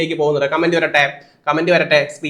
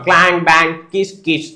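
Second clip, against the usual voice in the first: imitated workshop noises; 2 semitones higher, 3 dB louder than usual. Shown as a demonstration. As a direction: act out the banging in a shop. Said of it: "ഇതൊക്കെ ഓരോ sound ആണ്". (പണിശാലയിലെ തട്ടുമുട്ട് ശബ്ദാനുകരണം)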